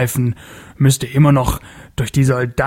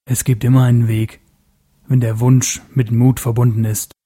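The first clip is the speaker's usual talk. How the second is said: curt and annoyed. Acted. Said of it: "knapp und verärgert".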